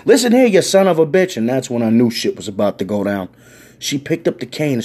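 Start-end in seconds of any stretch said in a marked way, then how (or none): 0.1-1.4 high, loud scolding granny; old lady scolding. Retold or imitated. Elderly woman scolds the officer, loud high granny voice. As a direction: tear into him like a furious grandma.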